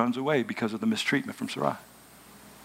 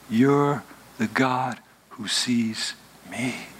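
awed slow realization; much slower than usual. Acted.

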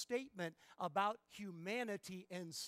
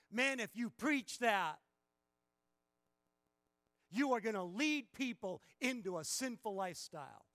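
mock legalist objection; 5 semitones higher, 9 dB louder than usual. Preacher voicing critics who fear grace leads to sin, loud alarmed mimicry. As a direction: shout it like a worried critic. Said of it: "people who say it from the other side".

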